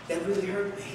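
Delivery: pause, then deliver it quietly; hushed point framed by pauses; dramatic pause. Shown as a demonstration. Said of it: "Pauses, strategic pauses".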